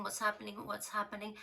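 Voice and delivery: a lightly voiced frightened little girl; scared sister. Sister asking what's happening to her brother, scared.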